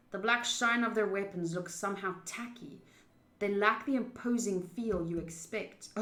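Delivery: even narration read; story narration. A narrator's reading. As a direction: read it steady and measured. Reads the game's narration.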